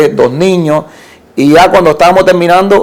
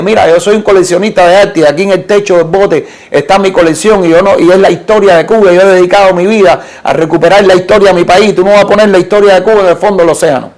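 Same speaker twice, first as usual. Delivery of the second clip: higher, insistent mock yell, pushing faster at the end; defending his collection in a raised retold shout; 3 semitones higher than usual. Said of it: "empecé a gritarle y le dije". (grito recreado, agudo e insistente)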